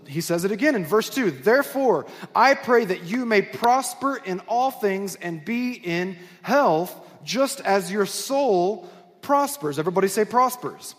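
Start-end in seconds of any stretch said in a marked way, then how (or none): 1.3-9.8 slow, measured Bible reading; deliberate, spaced-out phrases from the pulpit; Scripture reading. Acted. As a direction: read the verse out slowly to the congregation. Reads Scripture aloud.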